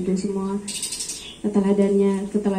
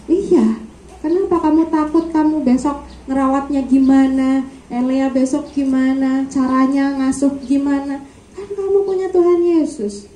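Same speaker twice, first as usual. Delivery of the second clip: father reassuring; 4 semitones higher than usual. Retold or imitated. Father's reassuring reply retold.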